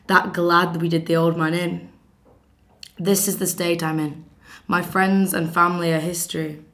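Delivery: loud, bitter tirade of a betrayed wife at her husband; bitter scorned wife. Acted. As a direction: hurl every line at Jason, seething and sarcastic. Scorned wife rages at Jason.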